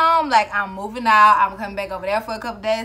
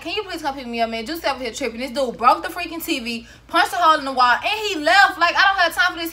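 medium-upset take; 5 semitones higher than usual. Shown as a demonstration. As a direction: get worked up gradually about the fight. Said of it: "I'm gonna be like".

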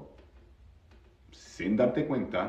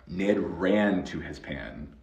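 slow, evenly spaced model sentence; model reading; 3 semitones lower, slower than usual. Shown as a demonstration. English teacher models a sentence for Spanish speakers, slow model reading. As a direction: read it out slowly for learners. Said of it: "Si quieres decirlo en presente".

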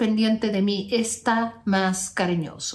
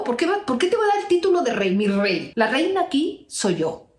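sassy; 2 semitones higher than usual. Acted. Coach sasses the ex.

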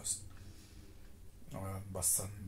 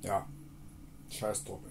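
shouting; 2 semitones higher, 10 dB louder than usual. Real, not acted. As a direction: call it out to everyone. Shouting pilgrim wisdom.

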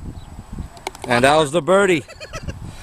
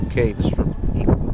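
whispering; 5 semitones lower than usual. Real, not acted. Quiet before an eagle putt.

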